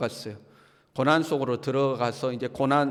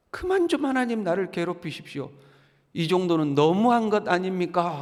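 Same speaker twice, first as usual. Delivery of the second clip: acted aggrieved plea; pleading complaint. Job asking God to stop, pleading complaint. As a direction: appeal to God with mild exasperation. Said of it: "욥이 하나님께 하소연을 하는 거죠".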